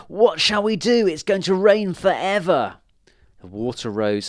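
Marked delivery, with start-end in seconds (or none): 0.1-2.8 loud, high, theatrical despair; panicked cry. A narrator's reading. Witches stuck in endless rain, crying out in panic. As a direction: wail it out loudly as if doomed. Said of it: "they cried".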